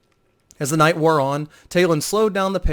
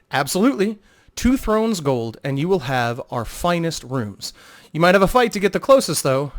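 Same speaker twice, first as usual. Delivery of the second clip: innkeeper Telith telling Vo the price; brisk innkeeper; 3 semitones higher than usual. Acted.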